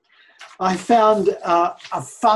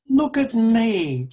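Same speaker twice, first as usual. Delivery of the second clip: raised, ringing look at me; loud call; 4 semitones higher, 5 dB louder than usual. Acted. Preacher voicing Jesus to the congregation, loud call. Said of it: "Jesus says".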